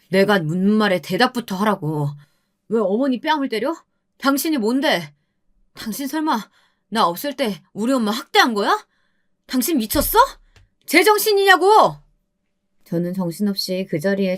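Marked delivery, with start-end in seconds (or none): 0.1-11.9 angry husband. Acted. Husband confronts abusive wife.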